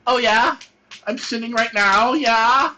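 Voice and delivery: high, eager questioning; mock excited priest. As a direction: play a thrilled priest.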